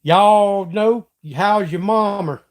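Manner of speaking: thick Southern drawl, words stretched out; demonstrating heavy Southern slang; bad Southern slang. Shown as a demonstration. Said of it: "I used to have a bad Southern slang".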